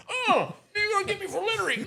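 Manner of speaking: high, mocking sarcastic whine; mock the cop sarcastically; sarcastic drunk.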